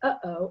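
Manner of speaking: "Uh-oh" with a catch in the throat between syllables; "Uh-oh", throat closing between the two halves; glottal stop. Shown as a demonstration. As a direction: stop the air sharply mid "Uh-oh". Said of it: "you need to say".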